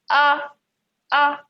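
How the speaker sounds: "Ah" held high, as the first syllable of ugly; stressed syllable alone. Shown as a demonstration. Teacher revealing the answer, stressed syllable "Ah" alone. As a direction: isolate a high, emphatic "Ah". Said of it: "the first syllable".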